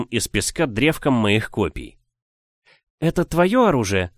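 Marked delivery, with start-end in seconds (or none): 3.0-4.1 curious witch question. A narrator's reading. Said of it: "спросила она".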